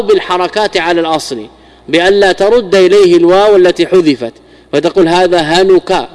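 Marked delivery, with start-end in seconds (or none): 5.1-6.1 هنك said slowly, ending on a clear u sound; slow demo of هنك. Shown as a demonstration. Teacher shows students هنك with damma, slow and clear. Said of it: "هنك بالضمة وهو مرفوع على الأصل".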